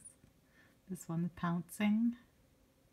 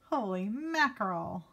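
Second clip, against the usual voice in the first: put-on kid exclaiming; 3 semitones higher than usual. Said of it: "that's what the kid is exclaiming".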